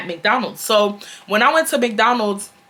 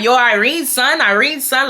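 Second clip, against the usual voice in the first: Chuck's New York talk; 4 semitones higher than usual. Retold or imitated. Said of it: "y'all know that's how Chuck talk".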